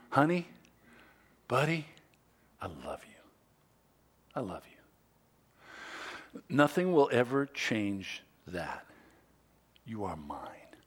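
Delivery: a father's tender whisper of love. Shown as a demonstration. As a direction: whisper it close, like tucking a kid in. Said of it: "Feels good hearing me say that".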